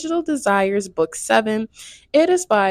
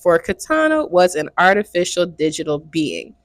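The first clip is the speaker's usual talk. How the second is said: steady read-aloud voice; 3 semitones lower than usual. Acted. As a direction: read the passage out plainly. Reads excerpt from the book.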